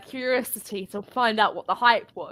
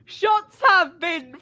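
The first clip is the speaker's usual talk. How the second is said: mock alarm; 4 semitones higher, 4 dB louder, much slower than usual. Announcing the burn dramatically.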